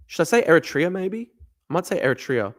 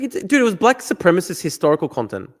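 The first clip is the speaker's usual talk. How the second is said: ordinary talk, nothing marked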